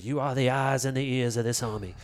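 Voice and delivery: put-on light Southern accent; General Lee. General to his officer in a film retelling, light Southern accent. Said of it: "my Southern accent".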